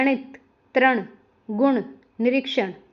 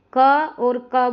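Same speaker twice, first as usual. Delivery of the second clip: slow, careful demo; 6 dB louder, much slower than usual. Shown as a demonstration. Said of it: "बोल सकते हैं".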